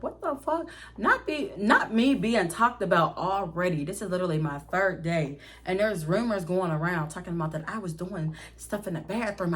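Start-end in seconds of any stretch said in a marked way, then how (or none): 0.0-3.8 mad. Retold or imitated. New employee fuming over a rumor about them, mad. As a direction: let exasperation lift the pitch. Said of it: "I'm so mad".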